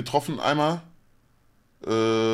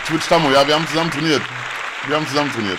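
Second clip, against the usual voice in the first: excited; 5 semitones higher, 8 dB louder, faster than usual. Real, not acted. Shouting excitedly at stream.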